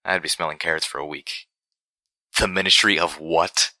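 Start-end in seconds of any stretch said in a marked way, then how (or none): 2.4-3.7 slow, choked gasp after a coughing fit. Acted. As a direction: sputter it out, still coughing. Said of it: "I gasped, tears in my eyes".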